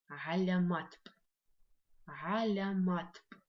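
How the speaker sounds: slow, loud teacher demo; slow emphatic model word. Shown as a demonstration. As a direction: stretch Галяматп out loud and clear. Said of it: "прочитаем все вместе".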